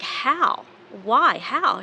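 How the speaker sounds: high, loud frantic burst of questions; panicked questions. Retold or imitated. Daughter on the phone to Judy, panicked and loud. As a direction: blurt them out in rising panic.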